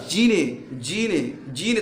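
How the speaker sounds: जीने said with a long ee; long vowel demo. Shown as a demonstration. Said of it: "थोड़ा सा long sound होता है".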